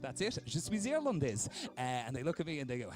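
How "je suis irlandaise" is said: high-pitched attempt at French; hammed-up French, pitched up; put-on French accent. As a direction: announce it in an affected French accent. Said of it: "I put on the accent".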